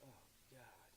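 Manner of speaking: dread. Retold or imitated. County executive after hearing they won, quiet retold dismay. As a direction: breathe it out, mildly overwhelmed.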